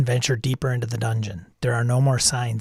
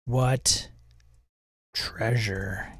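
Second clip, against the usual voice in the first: slow unvoiced whisper; 5 semitones lower, 7 dB quieter, slower than usual. Shown as a demonstration. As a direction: whisper it slowly as you type. Whispered prompt reading.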